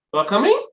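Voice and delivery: "You are coming" rising at the end; questioning intonation. Shown as a demonstration. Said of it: "how I am here asking the question".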